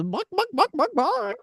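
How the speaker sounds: high clucking chicken noise, hammed up; mock chicken clucking. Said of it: "a seagull that says".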